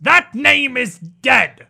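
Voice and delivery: loud, slow, hissing fury; hissing rebuke. Acted. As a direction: snap at them for the old name. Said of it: "a not quite gentle hiss".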